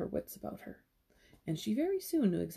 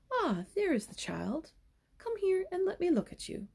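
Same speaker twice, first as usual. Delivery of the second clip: kind voice; 9 semitones higher than usual. A narrator's reading. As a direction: welcome the child kindly. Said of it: "said in a kind voice".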